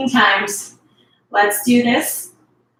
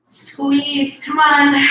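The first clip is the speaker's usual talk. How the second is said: encouraging shout; 4 semitones higher, much slower than usual. Real, not acted. Coach pushing through last reps.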